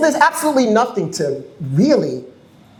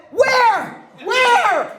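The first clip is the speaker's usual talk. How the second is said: mock surprise. Speaker teasing the alarmed woman in the bathroom, high mock surprise. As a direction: pretend to look round in alarm, pitched high. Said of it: "And I said".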